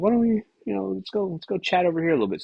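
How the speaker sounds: high put-on voice of a friendly podcaster; mock Huberman. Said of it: "He was just like".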